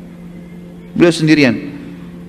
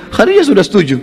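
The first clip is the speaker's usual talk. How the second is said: excited news; 8 semitones higher than usual. Acted. Nafisa delivering good news.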